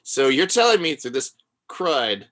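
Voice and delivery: slow, drawn-out mock cross-examination; imitated lawyer breakdown. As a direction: imitate a lawyer itemising the evidence. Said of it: "he's doing that thing where he's like".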